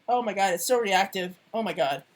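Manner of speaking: talking through hiccups; words broken by hiccups. Real, not acted. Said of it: "I'm hiccuping".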